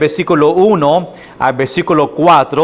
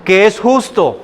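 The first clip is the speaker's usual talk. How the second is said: lament; 5 semitones higher than usual. Acted. Micah seeing nobody just out there, lamenting. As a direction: voice the lonely prophet, pitch raised. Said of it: "y dice".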